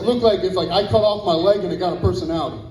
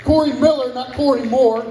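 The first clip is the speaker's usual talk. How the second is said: correcting name; 3 semitones higher than usual. Real, not acted. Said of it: "How do you fuck that up?".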